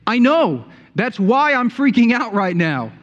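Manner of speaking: a hint of a frightened disciple, pitch up; imitating panicked John. John answering Jesus in mock panic. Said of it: "if I were John, I would say".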